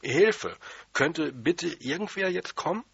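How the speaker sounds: ruhiger, etwas lauterer Ruf; normal gerufen. Retold or imitated. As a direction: einfach normal um Hilfe rufen. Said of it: "einfach normal gerufen". (Junge ruft ohne Panik um Hilfe)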